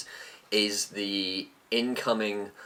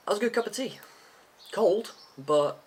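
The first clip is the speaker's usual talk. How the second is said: high sing-song; 12 semitones higher than usual. Real, not acted. Tea comment, high sing-song.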